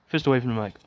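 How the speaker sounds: hint of a gruff podcast host; Joe Rogan voice. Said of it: "Joe Rogan style".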